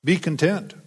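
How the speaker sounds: mock slogans. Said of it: "marketing opportunity to sell coffee mugs".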